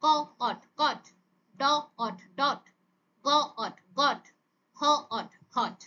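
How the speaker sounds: onset, rime, whole word, as in ড... অট... ডট; phonics sound-out. Shown as a demonstration. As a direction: say ক, pause, অট, pause, then blended কট. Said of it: "তার sound গুলোকে আমরা কি করব". (থেমে থেমে ক, অট, তারপর একসাথে কট)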